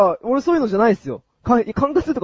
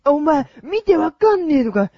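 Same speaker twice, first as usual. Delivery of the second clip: delinquent tough talk; 4 semitones higher than usual. Pretend. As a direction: play the cornered punk, threatening. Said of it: "俺が絡まれてるヤンキーをやります".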